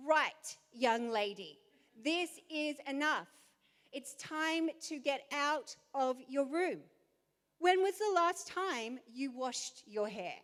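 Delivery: lightly voiced stern mum; a hint of a scolding mother; crisp disapproving governess. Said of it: "she's like".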